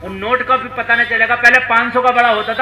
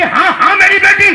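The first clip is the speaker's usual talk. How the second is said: a hint of a high old woman's voice, louder; 10 semitones higher, 7 dB louder than usual. Preacher voices the old widow answering Umar, higher and louder. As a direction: lightly voice the old widow, raised.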